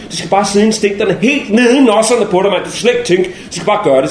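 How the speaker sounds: usual speaking voice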